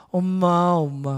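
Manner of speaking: drawn-out, falling call for mother; lightly acted wail of a calf; crying calf. Calves calling after their departing mother, mock crying. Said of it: "하고 울었을 거예요".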